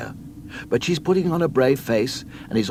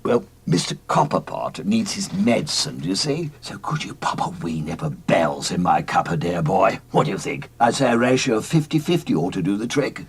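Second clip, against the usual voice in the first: a hint of a tipsy old gentleman, lower; lightly lowered old English gent; lightly voiced old gent; 3 semitones lower than usual. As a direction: coax the lad like a genteel old boozer. Old gent asks for whisky.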